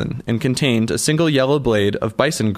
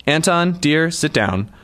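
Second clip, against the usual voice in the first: soothing; 5 semitones higher, slower than usual. Acted. Rose calming Anton.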